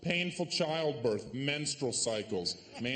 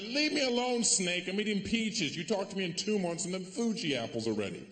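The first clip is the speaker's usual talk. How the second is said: dismissive; 5 semitones higher than usual. Acted. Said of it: "I'm like".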